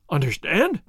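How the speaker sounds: "Understand?" rising at the end like a puzzled question. A narrator's reading. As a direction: throw the word back at him, baffled. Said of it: "queried the governor in a questioning tone".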